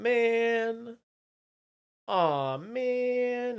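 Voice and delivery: high-pitched voice changer effect. Acted. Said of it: "Bonnie with the voice changer".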